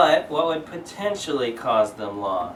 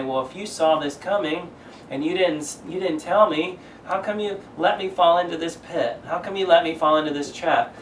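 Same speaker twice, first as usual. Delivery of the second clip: higher, complaining friend who was let down; upset accusation; 4 semitones higher than usual. Retold or imitated. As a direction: press him on why he let you fall. Upset friend confronting who didn't warn.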